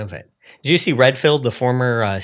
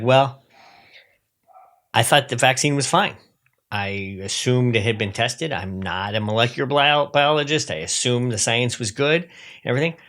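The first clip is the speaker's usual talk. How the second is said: lightly done impression of a TV commentator; slightly raised, halting mimicry of a pundit; a hint of an imitated commentator; Tucker; 2 semitones higher than usual. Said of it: "That's a pretty good Tucker impression".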